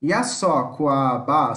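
Yasokuaba said slowly, syllable by syllable; teacher saying Yasokuaba for the class; slow careful Tupi word. Shown as a demonstration. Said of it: "Começando então".

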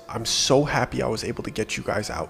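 quiet and choked up with relief; teary relief. Retold or imitated. Guide saying goodbye in the parking lot, softly tearful. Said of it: "He still had tears in his eyes".

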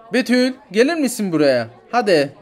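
loud call across the shop; summoning a wandering child. Acted. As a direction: call the child back loudly. Mother calls child back.

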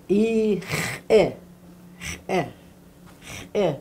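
"Eh" started with a hard catch in the throat; glottal stop. Shown as a demonstration. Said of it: "There's a different sound in it".

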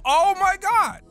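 high, loud disbelief; stunned yell. Real, not acted. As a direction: cry out in shock. Shocked by trailer.

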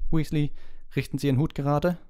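strict McGonagall scolding a pupil, loud and high; barked order. A narrator's reading. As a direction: bark at him to fix his hat. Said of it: "herrschte Professor McGonagall Ron an".

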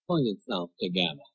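the wife quietly telling her husband to calm down; stern wife. Retold or imitated. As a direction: flatly scold him to calm down. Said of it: "My wife said".

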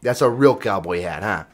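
loosely attempted accent of some New England dude; lightly done, shaky New England accent; bad accent work. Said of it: "That might be my bad accent work".

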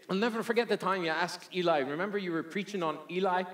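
imperfect Newfie accent, lightly put on; Florence in Newfie accent. Woman reminding pastor of his Eli sermon, light Newfie accent. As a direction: try a little Newfie while reminiscing. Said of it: "the little Newfie accent".

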